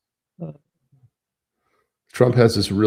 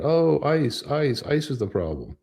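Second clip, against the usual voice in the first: mock whine; 6 semitones higher, slower than usual. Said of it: "while they're yelling".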